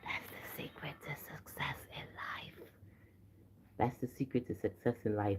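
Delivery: barely audible, very quiet confiding whisper. Sharing the secret to success with the people present, whispering. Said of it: "I'm only whispering it because".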